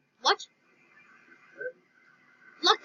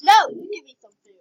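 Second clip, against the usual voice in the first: loud demand, called out; yelling across the room; 8 dB louder than usual. Acted. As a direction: shout it from another room. Sisters arguing across the house.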